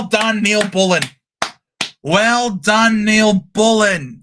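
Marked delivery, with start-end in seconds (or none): 2.0-4.2 drawn-out shouted cheer. Real, not acted. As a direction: bellow the praise across the room. Cheering a player's good play.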